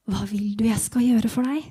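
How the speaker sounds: gentle, unhurried question; mild, measured offer of help. Acted. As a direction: ask kindly and calmly. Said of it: "jeg hører en mild stemme som sier".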